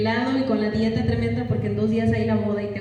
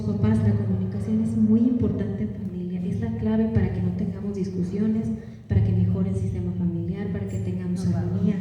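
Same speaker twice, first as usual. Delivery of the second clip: monotone lecture; 4 semitones lower than usual. Shown as a demonstration. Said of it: "contenido importante".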